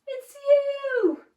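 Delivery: high, loud, drawn-out tease; amused reply. A narrator's reading. Duckbills answer Drip about his reflection, amused and high. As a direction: sing it out high, lightly amused. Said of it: "laughed and said".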